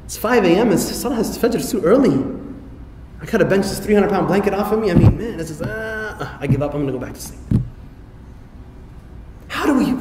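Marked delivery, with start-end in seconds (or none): 0.0-7.4 1 lazy groggy whining. Retold or imitated. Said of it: "Or is it just like".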